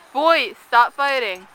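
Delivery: stern firm telling-off; scolding. Real, not acted. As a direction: break up the fight, stern. Scolding kids who fight.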